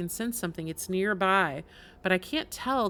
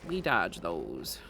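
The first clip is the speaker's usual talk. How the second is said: much lower, slow and deliberate; mock deep voice; 8 semitones lower, 11 dB quieter, slower than usual. Streamer to chat about spikes, in a slow mock-deep voice. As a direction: intone it like a grave commander. Mock-solemn game instruction.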